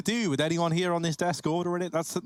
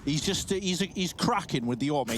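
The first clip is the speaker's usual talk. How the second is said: Rush impression. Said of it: "that's my Rush impression".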